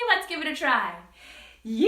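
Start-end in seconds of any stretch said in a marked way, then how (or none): 1.7-1.9 quick rising yee-haw call; cowboy shout. Shown as a demonstration. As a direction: holler it like a cowboy. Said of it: "Can you guys do that with me".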